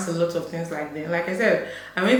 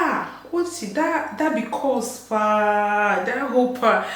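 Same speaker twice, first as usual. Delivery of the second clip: pidgin English; 3 semitones higher, slower than usual. Retold or imitated. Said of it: "then comes the pidgin English".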